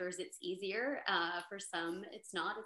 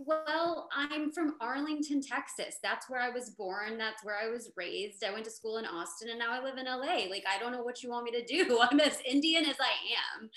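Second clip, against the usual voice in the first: higher-pitched protest, building to a loud laugh; exasperated retort; 3 semitones higher, 4 dB louder than usual. Retold or imitated. Actress answering casting's "not authentic enough" verdict, exasperated. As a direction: push back in exasperation, breaking into laughter.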